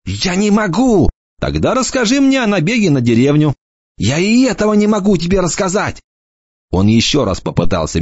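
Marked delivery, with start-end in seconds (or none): 0.1-6.0 a hint of a teasing young lad, pitched up; light mocking boy's voice; lightly voiced cocky boy. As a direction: toss it off like a smug teenager. Enoch's voice.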